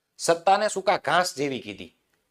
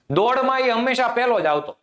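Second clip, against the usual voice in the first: ironic praise; 5 semitones higher than usual. Shown as a demonstration. Teacher demonstrating ironic praise of a runner, hammed-up. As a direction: set up the praise big before the punchline. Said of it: "વ્યાજ સ્તુતિ".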